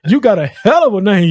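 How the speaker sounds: usual speaking voice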